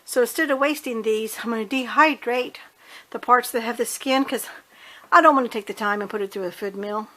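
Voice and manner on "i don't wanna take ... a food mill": breathless, rushing the words; talking short of breath after running around. Real, not acted. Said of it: "I'm out of breath".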